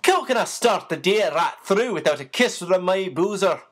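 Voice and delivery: hearty jovial sailor, a mild mock roar; good-humoured roar. Sailor Siley greeting his sweetheart Becky, mild jovial roar. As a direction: boom it out cheerfully like a sailor. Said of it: "in a good-humoured roar".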